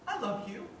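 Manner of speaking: soft "I love you." with a rising end, like a question. Shown as a demonstration. Telling a partner I love you, phrased as a question. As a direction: ask "I love you." as if unsure. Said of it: "Say it just like that, you phrase it like it's a question".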